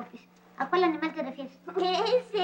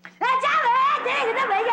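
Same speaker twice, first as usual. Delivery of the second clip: loud, high crying outburst; shrieked tearful babble; bawling; 7 semitones higher, 4 dB louder, slower than usual. Acted. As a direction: wail it out so the words blur. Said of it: "la gente que grita".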